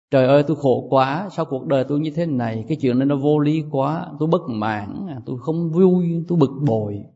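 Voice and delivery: mildly mock a monk grumbling to himself; complaining monk. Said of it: "Đó đó, là quên".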